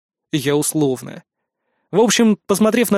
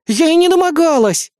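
higher, louder indignant outburst; 11 semitones higher, 5 dB louder than usual. A narrator's reading. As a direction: protest hotly, offended. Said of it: "возмутилась Лара". (возмущённо, громко и выше)

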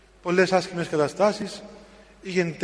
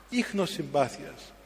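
Ίχνος συμπάθειας repeated much softer and slow; soft echo; 7 dB quieter, slower than usual. Acted. Preacher echoing the elder's harshness, hushed and slow. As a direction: let the phrase fall away to a hush. Preacher echoes the phrase softly.

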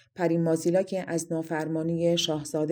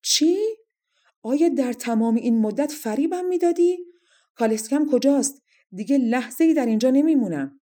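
high, loud outraged king; furious shout; 7 semitones higher, 6 dB louder than usual. A narrator's reading. Deceived king demanding his carriage, shouting furiously. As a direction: explode in shocked anger. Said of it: "پادشاه خشمگینانه فریاد زد".

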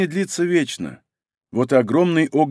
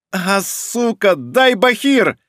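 pained strain; 4 semitones higher, much slower than usual. Acted. Boy strains in pain.

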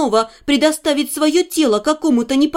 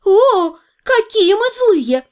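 mocking drawl; 6 semitones higher, slower than usual. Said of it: "без малейшей улыбки протянула Дейла".

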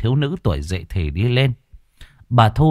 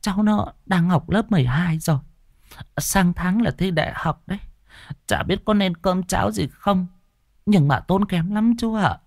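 put-on old grandmother; 8 semitones higher than usual. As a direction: speak as a frail old grandma. Grandmother voice continues.

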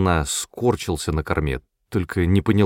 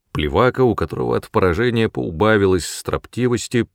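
ordinary delivery, nothing marked

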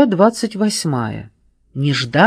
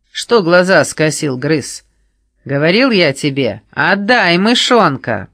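loud, sneering threat; menacing; 3 semitones higher, 6 dB louder than usual. Acted. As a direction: lean on him. Rogonos bullies Gryz.

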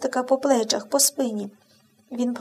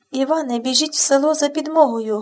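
calling out. Acted. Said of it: "гукнула Зінаїда Антонівна".

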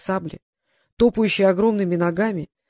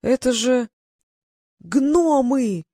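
higher, slow alarmed yelling; 5 semitones higher, much slower than usual. A narrator's reading. Hamas warning everyone at the dwarves, alarmed yell. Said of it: "завопил Хамас".

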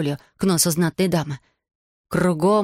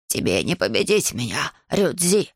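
mild dragon roar; 3 semitones lower than usual. Acted. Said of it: "взревел Кабо".

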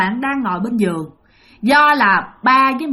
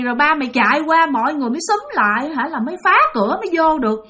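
lightly voiced upset mum, higher pitched; worried scolding mother; 5 semitones higher than usual. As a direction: fret and scold like an anxious mother. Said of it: "mẹ bạn mới hỏi rằng á là". (hơi giống giọng mẹ trách móc, lo lắng)

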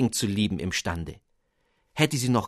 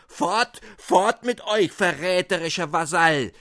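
rising to a high, loud furious shout; furious king; 5 semitones higher, 4 dB louder than usual. Acted. King drives out the radish duke, furious high shout. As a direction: banish the traitor with royal fury.

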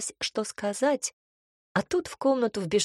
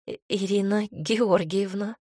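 stumbles on the first И- of Ирина, then says Ирина Георгиевна; flustered, restarting Ирина; flustered stammer. Acted. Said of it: "чуть растерянно улыбнулась мама".

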